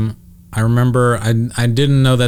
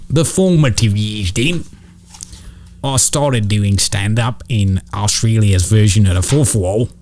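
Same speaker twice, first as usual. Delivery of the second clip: Nanette voice. Pretend. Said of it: "keep doing this with Nanette voice".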